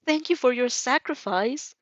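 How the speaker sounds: slow, dry deadpan sarcasm. Acted. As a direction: drawl it out sarcastically. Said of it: "you deadpan".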